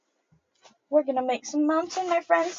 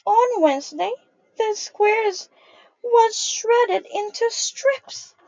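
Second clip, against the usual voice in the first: slow, weighty storybook line; slow dramatic storytelling; 2 semitones higher, 4 dB louder than usual. A narrator's reading. Teacher reading to children about the shredded square, slow and dramatic. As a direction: build suspense for little listeners.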